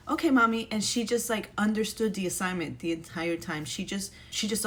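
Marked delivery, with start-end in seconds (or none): 0.1-0.7 put-on lightly raised child's voice, higher and louder; a mom voicing her little girl's eager reply; imitating little daughter. Daughter agreeing to mom, a light childlike mock voice. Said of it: "And she was like".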